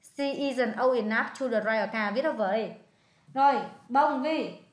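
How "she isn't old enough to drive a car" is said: put-on "She isn't old enough to drive a car" read slowly, word by word; slow it down so she can write it; slow dictation. Shown as a demonstration. Tutor slowly repeats the sentence so the student can copy it. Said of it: "Cô ấy không đủ tuổi".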